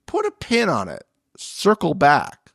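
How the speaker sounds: high, sing-song office jargon; mocking corporate speak.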